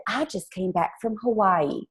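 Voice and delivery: lightly imitated sweet Southern accent; touch of a sweet Southern voice; Jackie Woodfin. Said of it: "I'm gonna do her accent".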